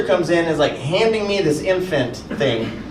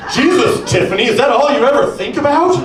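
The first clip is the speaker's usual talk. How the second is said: put-on whiny boyfriend; 3 semitones higher than usual. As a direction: whine like a neglected partner. Comedian voices imagined whining boyfriend.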